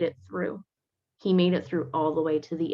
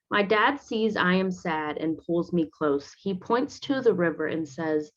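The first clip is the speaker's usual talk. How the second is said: put-on reading to children. A narrator's reading. Teacher reading a picture book aloud to students. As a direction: read it gently to the class.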